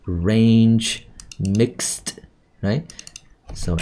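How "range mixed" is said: RANGE and MIXED with final consonants fully released; careful word-by-word RANGE, MIXED, endings audible; clear ending sounds. Shown as a demonstration. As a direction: land the "j" of range and the "kst" of mixed. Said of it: "Ending sounds is obvious".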